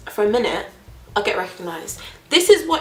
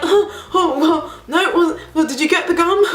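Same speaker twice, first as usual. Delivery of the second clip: higher, laughing awkward dodge; 8 semitones higher than usual. Retold or imitated. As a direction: laugh it off nervously.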